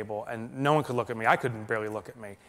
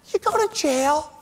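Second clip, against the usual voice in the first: high, loud, slow mock verdict; mock-serious answer, pitched high; blunt reply; 7 dB louder than usual. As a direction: deliver it like a flat sentence. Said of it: "And he goes".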